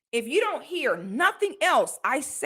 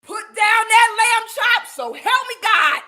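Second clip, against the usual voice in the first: higher, louder and slow, a hammed-up threat; mock stern warning; 8 semitones higher, 5 dB louder than usual. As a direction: draw it out like a furious church lady. Imagined scolding of women eating.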